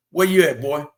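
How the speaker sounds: loud mother's call across the house. Retold or imitated. Mother calling her son home, loud call. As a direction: call the boy like his mom would.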